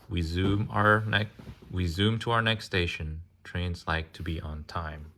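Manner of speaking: sing-song picture book reading; reading to children. Acted. Parent reading a train picture book to a child, sing-song. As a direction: read the rhyme gently to a little one.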